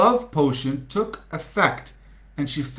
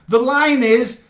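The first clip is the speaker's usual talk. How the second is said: firm correction; 8 semitones higher, 6 dB louder than usual. Acted. Director correcting line.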